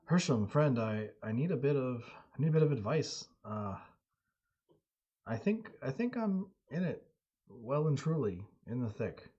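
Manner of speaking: breathless, urgent plea; out of breath. Acted. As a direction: speak winded after a climb. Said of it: "a little out of breath".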